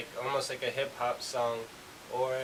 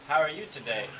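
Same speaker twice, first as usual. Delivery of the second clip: "How are you today?" with a small lift toward "today"; rising intonation; 3 semitones higher, 3 dB louder, faster than usual. Shown as a demonstration. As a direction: lift the pitch a little on "today". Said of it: "it goes up a little bit".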